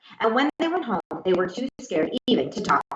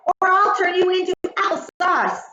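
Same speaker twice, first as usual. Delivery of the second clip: higher, louder threat; threatening shout; 11 semitones higher, 4 dB louder than usual. A narrator's reading. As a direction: yell the threat at the apples. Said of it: "she shouted".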